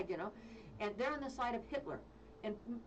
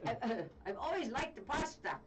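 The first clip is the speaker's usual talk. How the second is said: put-on weak Russian accent; 2 semitones higher than usual. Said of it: "I would do a Russian".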